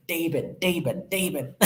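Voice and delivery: "Durban" repeated as "Dayben", South African accent; put-on South African accent, "ay" in "Durban". Shown as a demonstration. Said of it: "I need to say it with a South African accent".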